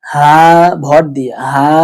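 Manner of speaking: "হা" as a weighted plain h; outer-throat ha. Shown as a demonstration. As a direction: lean on "হা" without constricting the throat. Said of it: "হলকের বাহির থেকে উচ্চারণ হয়".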